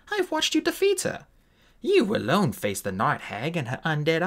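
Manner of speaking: put-on pleading with her old friend, passionately; Scatty, fierce and insistent. Narrator voices Scatty.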